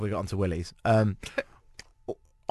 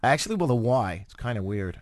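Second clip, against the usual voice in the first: faked Canadian accent. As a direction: badly fake a casual Canadian accent. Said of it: "This accent's horrible".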